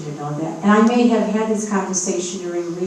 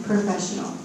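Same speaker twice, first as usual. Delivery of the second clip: professional said louder on request; repeated louder; 4 dB quieter than usual. Real, not acted. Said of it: "Say it again".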